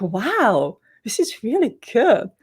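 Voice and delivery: pleasantly surprised by her own work; amazed self-quote. Retold or imitated. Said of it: "sometimes I go like".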